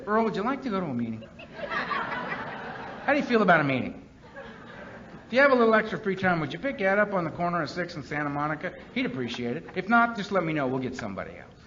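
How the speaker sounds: quick, overly courteous sponsor asking nicely; mock polite request. Sponsor he never was, mock-politely asking Earl. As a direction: ask sweetly, as if it were optional. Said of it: "He never called up and said".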